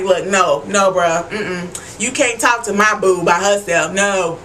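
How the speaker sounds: imitating a possessive boyfriend, voice dropped low; deep Alcide voice. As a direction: play the protective man, low and firm. Voicing Alcide guarding his girl.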